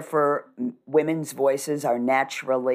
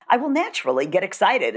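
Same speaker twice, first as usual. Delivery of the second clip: quick, raised-pitch excitement; excited pitch rise; 5 semitones higher, faster than usual. Shown as a demonstration. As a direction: voice climbing higher and quicker as if getting excited. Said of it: "my voice will come up in pitch".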